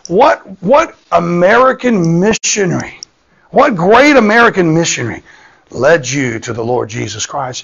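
high, slowed, impressed wondering; eager questioning. Retold or imitated. Old preacher asks the foreign pastor about his conversion, eager awe. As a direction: pitch it high and marvel at the question.

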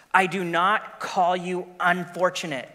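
slow, solemn lion voice; lion Aslan. Acted. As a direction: speak slowly as the great lion.

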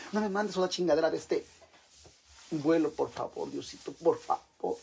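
mock plea that slows down at the end; imitated pleading prayer. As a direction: beg God, stretching out the last words. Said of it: "Yo así le pido al Señor". (súplica fingida que se va alargando)

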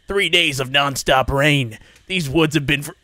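a deep, dramatic trailer voice, breaking into a laugh; failed narrator voice. Shown as a demonstration. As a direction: try a grand narrator voice and crack up. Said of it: "I can't do that voice".

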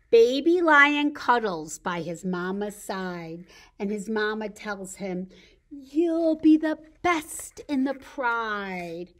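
measured, lilting picture-book narration; story reading to children. A narrator's reading. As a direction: read each rhyme out clearly for toddlers. Reads a picture book to toddlers.

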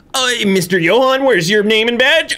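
a hint of a stern checkpoint guard; mock official. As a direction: lightly play a guard asking for a badge. Voicing a checker in game.

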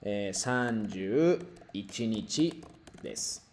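kyou wa 十月 三十一日 desu said very slowly while writing; slow teacher dictation pace. Shown as a demonstration. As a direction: dictate the date slowly so students can follow. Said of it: "Kakimasu ne".

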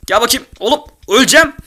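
high loud alarm; scared gamer yelp; panicked shout. Real, not acted. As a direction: yell as the fight turns. Close fight in game.

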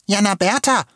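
put-on high-pitched boy's excited call. A narrator's reading. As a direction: call her name eagerly from up ahead. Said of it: "rief er aufgeregt".

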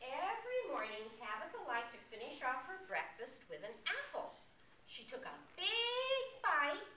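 animated picture-book narration with swooping pitch; lively storyteller delivery; reading to children. A narrator's reading. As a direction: read a storybook to little listeners.

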